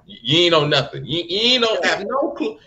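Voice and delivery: high, loud disbelief; rising to an exasperated pitch; a fed-up fan calling out a villain's plan; incredulous. Real, not acted. Incredulous rant at Arlong.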